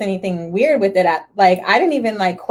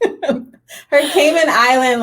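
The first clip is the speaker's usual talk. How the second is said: laughing; 4 semitones higher, 3 dB louder, much slower than usual. Real, not acted. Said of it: "laughs like".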